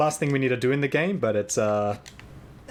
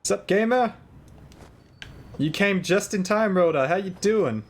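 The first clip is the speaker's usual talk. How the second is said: high-pitched greeting; 8 semitones higher than usual. Acted.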